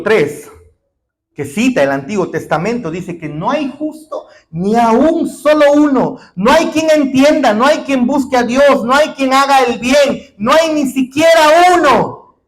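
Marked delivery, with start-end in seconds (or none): 3.3-12.4 rising, louder, higher preaching voice that climbs to a shout; preaching at full force. Acted. Preacher quoting Romans to the congregation, building to a shout. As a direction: hammer each "no hay" harder than the one before.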